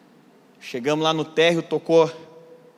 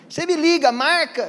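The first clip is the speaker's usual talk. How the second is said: high, airy polite brush-off; brush-off me liga; 11 semitones higher, 5 dB louder than usual. Retold or imitated. Pastor mimicking a polite brush-off, high and airy. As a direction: sing it out like you'll never call. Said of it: "quando você não quer fazer um negócio".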